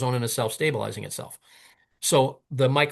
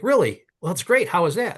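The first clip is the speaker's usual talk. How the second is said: higher, louder "oh, really" reaction; feigned surprise; 5 semitones higher, 3 dB louder than usual. Retold or imitated. Hearing his own idea back from the man, feigned surprise. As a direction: play impressed, with a knowing edge.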